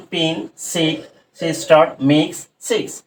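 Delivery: "পিন, সিক, সিস্টার, মিক্স, সিক্স" each with short "i"; short I sound. Shown as a demonstration. Teacher listing examples for pupils, short I sound. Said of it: "ভাওয়েলের short sound উচ্চারণ করছে".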